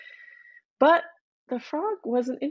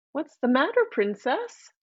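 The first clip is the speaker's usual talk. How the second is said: higher, playful voice for the frog calling out; a lightly voiced friendly frog; 5 semitones higher than usual. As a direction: coax the crying princess from the water. Frog calls again.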